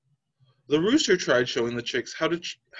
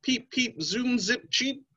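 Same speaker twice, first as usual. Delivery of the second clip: high little chick chirps; chick peeps; 7 semitones higher, slower than usual. Acted. Mama hen's chicks chirping their motto, high chick peeps. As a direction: chirp it like tiny busy chicks. Chicks' sound chant again.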